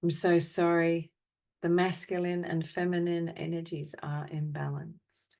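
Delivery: measured phrases with long silences between; guided apology meditation. Acted. Meditation leader offering apologies for the world's imbalance, measured and solemn. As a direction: recite each apology evenly, leaving space to feel.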